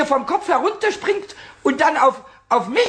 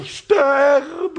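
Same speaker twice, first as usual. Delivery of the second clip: whimpering; 3 semitones higher than usual. Acted.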